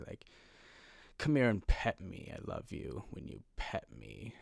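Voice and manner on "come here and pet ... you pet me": soft, coaxing mock-sweet cat; cat being nice. Cat wanting something from its owner, falsely nice voice. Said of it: "they would do it in a nice way".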